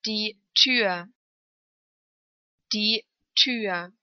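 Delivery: long ü in "Tür". Shown as a demonstration. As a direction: hold the ü of "Tür". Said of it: "Lang ausgesprochen".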